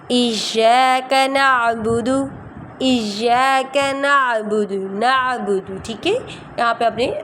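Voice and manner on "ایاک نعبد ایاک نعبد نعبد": slow, drawn-out tajweed chant; slow Quran recitation. Shown as a demonstration. Teacher reciting slowly for students to follow, chanted. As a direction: recite it slowly for the class to repeat. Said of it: "چلیں آئیں میرے ساتھ پڑھیے".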